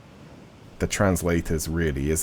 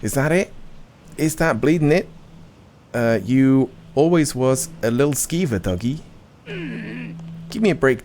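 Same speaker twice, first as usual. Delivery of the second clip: indignant Cockney miner, pitched up a little; Cockney grumble; 4 semitones higher than usual. Acted. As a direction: moan to Digby in a Cockney accent. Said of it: "always London Cockney".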